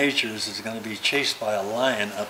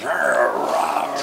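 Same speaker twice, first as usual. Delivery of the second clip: lion roar imitation; 4 dB louder than usual. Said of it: "all of a sudden you hear this".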